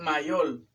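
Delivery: "mayor" said as "mayol", ending in L; "mayor" mispronounced as ma-YOL; learner's L for R. Retold or imitated. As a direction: imitate the mistake, "mayor" with final L. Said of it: "pero no es mayor".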